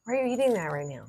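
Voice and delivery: talking while chewing; words around a bite of candy; mouth full. Real, not acted. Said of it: "we want to hear you crunching".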